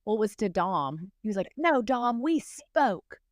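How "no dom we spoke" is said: higher, pushy producer voice; hammed-up insistent producer; mock accusing producer. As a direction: press her like a producer who knows.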